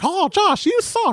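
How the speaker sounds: very high little cartoon mouse voice. Speaker reads a hater's comment aloud in a Mickey Mouse voice. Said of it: "I read everything with like a Mickey Mouse voice".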